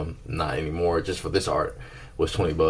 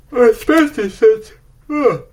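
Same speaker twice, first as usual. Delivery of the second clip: excited squeal; 11 dB louder, slower than usual. Real, not acted. Sudden high excited squeal.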